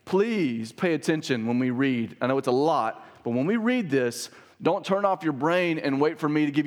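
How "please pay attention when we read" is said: slow, drawn-out emphasis on please; emphatic, measured appeal. Real, not acted. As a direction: urge them slowly and deliberately. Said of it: "I just wanna emphatically say".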